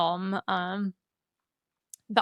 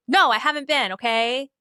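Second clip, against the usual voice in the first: snapped back, louder and higher; defensive retort; 4 semitones higher, 5 dB louder than usual. Retold or imitated. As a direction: bristle at the question, defensive. Ray snapping back at Molly.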